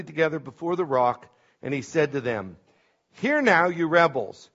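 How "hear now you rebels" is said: exasperated scolding, acted out from scripture; disgusted rebuke. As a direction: read Moses' rebuke with a touch of disgust. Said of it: "So Moses is disgusted at this point".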